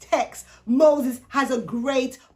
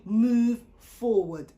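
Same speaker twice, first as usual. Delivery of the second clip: very slow, level urging; calm prompt; much slower than usual. Retold or imitated. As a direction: lay out each word gently and slowly. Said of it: "God prompts him to say".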